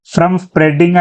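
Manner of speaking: slowed right down, every sound spelled out; slow reading. Shown as a demonstration. Teacher singling out the phrase for students, slow. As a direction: stretch the words out for the class. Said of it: "ఇందులోనే".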